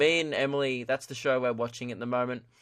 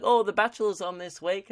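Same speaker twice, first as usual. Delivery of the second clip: higher, mock-cutesy gush; cutesy old self; 6 semitones higher than usual. Old podcast self gushing to listeners, cutesy. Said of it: "I used to be like".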